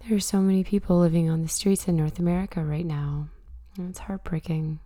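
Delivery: hoarse from a cold; raspy voice. Real, not acted. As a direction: talk with a raspy, sick voice. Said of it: "excuse my raspy voice this morning".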